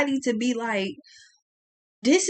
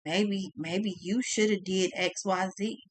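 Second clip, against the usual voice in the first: mock placating; 4 semitones lower, 7 dB quieter than usual. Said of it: "you still look at that person and say".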